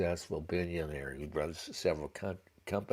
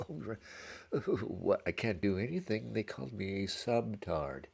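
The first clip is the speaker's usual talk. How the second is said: lightly whined mock helplessness; mock cowed whining; 5 semitones higher than usual. Sulker sitting in the corner after shit talk, mock whining. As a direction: play up being hurt and helpless, pitch raised.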